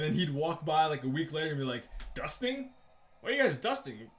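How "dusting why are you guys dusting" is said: high, lightly voiced nagging boss; mock scolding boss. Russian boss scolding janitors for dusting, high mock nagging. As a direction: nag them off the ladder.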